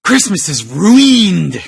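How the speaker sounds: slow, hammed-up doom; mock dramatic. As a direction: announce the ruin theatrically. Mock Grinch declaring.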